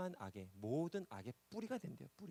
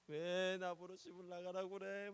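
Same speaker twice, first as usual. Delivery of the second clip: slow, higher mock crying child; crying daughter; 5 semitones higher, slower than usual. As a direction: imitate a weeping girl, slowly. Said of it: "막 이러면서 막 울고".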